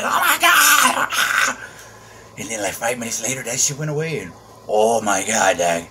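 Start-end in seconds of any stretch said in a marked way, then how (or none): 0.0-1.6 stunned oh my god. Retold or imitated. Drug rush hitting him.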